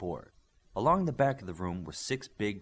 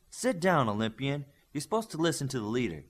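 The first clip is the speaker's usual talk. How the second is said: higher, firm command to sit; a teammate ordering the hothead down; 4 semitones higher than usual. Acted. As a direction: tell him to sit, no nonsense.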